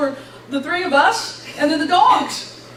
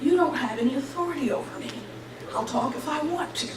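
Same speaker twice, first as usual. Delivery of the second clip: softer, firm retort; calm defiance; 7 dB quieter than usual. Retold or imitated. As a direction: stand your ground quietly.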